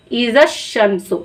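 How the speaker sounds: इज़ा शमसु read slowly, इज़ा stressed, each sound drawn out; slow Quranic reading. Shown as a demonstration. Teacher slowly recites इज़ा शमसु for her students. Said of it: "तो ऐसे आप एक बार practice करिए".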